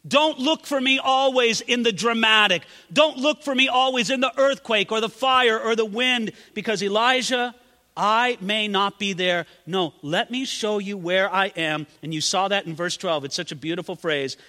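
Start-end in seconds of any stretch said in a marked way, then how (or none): 0.1-11.9 God speaking. Acted. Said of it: "what God was showing the prophet".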